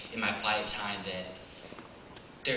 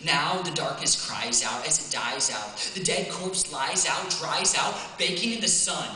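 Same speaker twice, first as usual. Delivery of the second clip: spoken-word poem, measured start building to higher, fervent delivery; poem recital; 4 semitones higher than usual. Acted. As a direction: recite rhythmically, leaning on the rhymes, lifting pitch and intensity as the battle builds. I'm just gonna share the poem.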